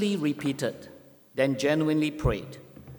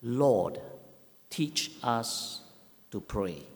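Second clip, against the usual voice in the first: disciples asking Jesus, softly and reverently; a hushed, humble request voiced lower; soft plea; 4 semitones lower, 5 dB quieter, slower than usual. Disciples ask Jesus to teach them, hushed. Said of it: "came to Jesus and said".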